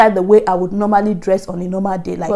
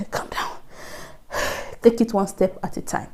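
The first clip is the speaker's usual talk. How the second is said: calming self-talk; 9 dB quieter than usual. Retold or imitated. Telling herself not to be too excited yet, hushed calming. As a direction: breathe out and settle yourself, mock-soothing. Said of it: "be calming down".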